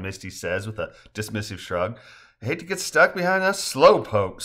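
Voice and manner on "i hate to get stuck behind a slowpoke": higher, louder teasing jab; lively mock complaint. A narrator's reading. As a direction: needle them playfully. Teasing banter before the zipline.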